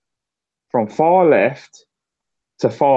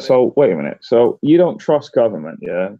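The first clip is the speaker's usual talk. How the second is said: mock debate retort; 4 semitones lower than usual. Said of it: "it's just like".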